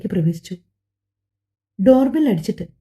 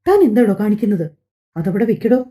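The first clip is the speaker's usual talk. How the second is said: angry demand. Acted. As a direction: scold him to put it down. She grabs his collar, angry. (കോളറിൽ പിടിച്ച് ദേഷ്യത്തോടെ)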